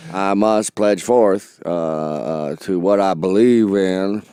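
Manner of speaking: slow, ponderous mock orator; hammed-up grandiose actor voice; Orson Welles. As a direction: intone it slowly with halting pauses. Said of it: "fucking Orson Welles".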